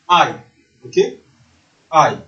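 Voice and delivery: I said "eye", set apart as a model; I as diphthong. Shown as a demonstration. Teacher modelling the diphthong in wife, I said as "eye". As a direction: glide from ah to ee on I. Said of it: "le diphtongue".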